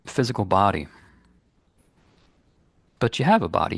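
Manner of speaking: calm, unhurried guidance with long pauses; guided meditation. Real, not acted. Meditation teacher guiding listeners to release guilt, calm and unhurried. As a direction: lead listeners gently inward, leaving space between phrases.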